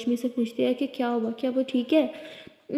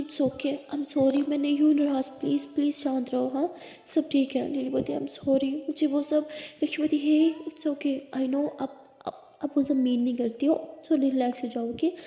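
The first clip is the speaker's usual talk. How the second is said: reassuring; 2 semitones higher than usual. Acted. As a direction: hold her and calm her down. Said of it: "लिली को समझा रही होती है, उसे संभाल रही".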